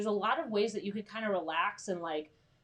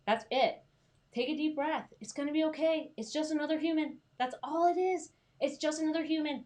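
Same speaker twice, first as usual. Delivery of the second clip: higher, gentle calming voice; reassuring; 5 semitones higher than usual. Shown as a demonstration. Coach calming nervous freelancers, gentle and higher.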